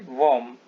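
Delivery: वॉर्म said "vom", with a v and no r; pronunciation demo. Shown as a demonstration. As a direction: model वॉर्म clearly as one syllable, "vom". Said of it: "इसका उच्चारण होता है".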